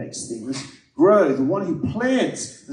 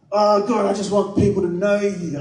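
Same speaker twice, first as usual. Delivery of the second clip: heartfelt prayer; 5 semitones higher than usual. Retold or imitated. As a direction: pour it out as a prayer. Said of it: "I was like".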